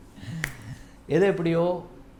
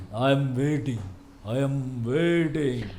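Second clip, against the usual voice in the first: lower, very slow hero punch line; low menacing one liner; 6 semitones lower, much slower than usual. Retold or imitated. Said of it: "இந்த மாதிரி ஒரு punch ஒன்று சொல்லியிருக்காரு".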